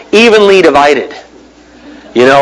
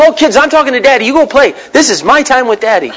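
put-on shooing the kids; 6 semitones higher than usual. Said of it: "the kids come in the room".

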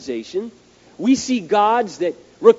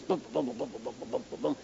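low, soft repeated thumping; imitated flat-tire noise; 6 semitones lower, 17 dB quieter, faster than usual. Driver retelling the awful noise in the van, soft imitated thumping. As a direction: thud out a quick run of muted bumps. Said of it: "hear this awful noise".

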